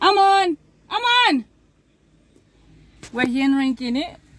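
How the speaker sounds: yelling. Doing a video intro alone, calling out to a companion on a phone call, shouting. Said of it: "I'm doing the intro and I'm shouting".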